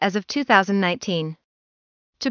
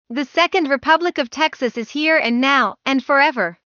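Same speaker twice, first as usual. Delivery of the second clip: raised, declaiming orator's delivery; rousing political speech; 4 semitones higher than usual. Retold or imitated. Reporter quoting a secession speech to the legislature, raised and declaiming. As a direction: proclaim it like a rally speech to lawmakers. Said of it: "the following words made the Texas legislature erupt".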